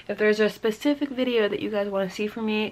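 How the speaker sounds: retainer in, words a bit slurred; wearing a retainer. Real, not acted. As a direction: talk around a retainer. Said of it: "wearing my retainer, so it's hard to talk".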